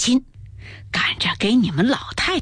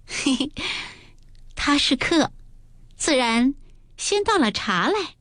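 light giggly maid's voice, pitched higher; laughing; 5 semitones higher than usual. Acted. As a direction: giggle through a teasing reply. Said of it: "紫娟笑道". (笑着说)

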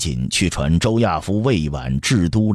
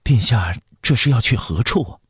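higher-pitched, worried question; anxious palace steward; 6 semitones higher than usual. Acted. Palace steward hurries after the prince, anxiously asking. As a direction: ask as a fretful servant hurrying after his master. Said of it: "急忙跟上来问道".

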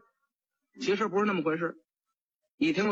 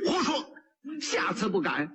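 sharp, raised rebuke; angry magistrate. Acted. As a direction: snap back in anger. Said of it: "知县一听就火了". (县官发火地呵斥)

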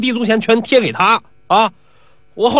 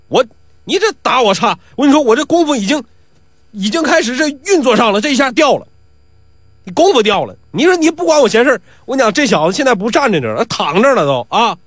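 put-on brash young braggart, pitched higher; boastful bully; 5 semitones higher than usual. Pi Wu complains, brags.

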